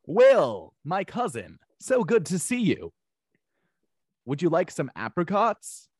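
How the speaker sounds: high, drawn-out, sing-out delivery; Carlton Banks impression. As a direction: stretch each phrase in a slow, high character voice. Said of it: "Carlton Banks impersonations?".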